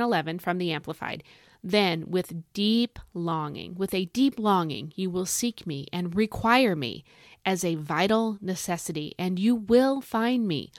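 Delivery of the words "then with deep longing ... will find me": scripture reading. Acted. Reads scripture aloud.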